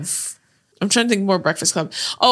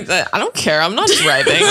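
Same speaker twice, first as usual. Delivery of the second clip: catchphrase quote. Retold or imitated. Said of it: "we say that all the time".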